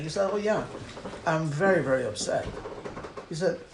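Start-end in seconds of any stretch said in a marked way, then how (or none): 0.3-2.4 quiet, low admission of being upset. Retold or imitated. Troubled rabbi admits his upset to a questioner, subdued and low. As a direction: sink softly into a retold, downcast reply. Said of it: "clearly upset about something".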